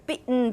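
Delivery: bitten with glottal stop and hummed N; bitten, T caught, ending on a syllabic N; syllabic nasal. Shown as a demonstration. Teacher sets up a contrast, bitten with syllabic nasal. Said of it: "Let's do a contrast here".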